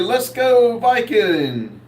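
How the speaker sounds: high, drawn-out cheer; mock rallying cry. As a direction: stretch it out like a playful rallying call. Reads out a viewer's cheer.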